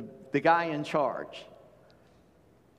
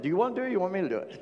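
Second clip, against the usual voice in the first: fast, irritated snap of a question; quick annoyed comeback at a hovering helper; exasperated retort; much faster than usual. Retold or imitated. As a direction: fire it off, fed up with the meddling. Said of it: "Hope that wasn't too much anger in my voice".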